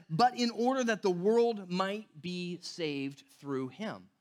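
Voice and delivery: slow, deliberate verse quote fading on him; solemn recited verse; scripture quote. Acted. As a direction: let the verse land slowly.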